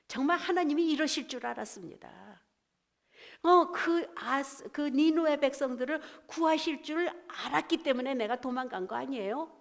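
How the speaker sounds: mildly acted angry complaint; angry Jonah. Jonah protesting to God that he knew it, mildly acted anger. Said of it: "요나가 정말로 성내면서".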